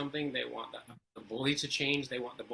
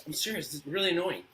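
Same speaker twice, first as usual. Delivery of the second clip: higher and louder, thoroughly annoyed; exasperated kid; 5 semitones higher, 4 dB louder than usual. Retold or imitated. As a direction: complain like a kid who has had enough. Son increasingly annoyed.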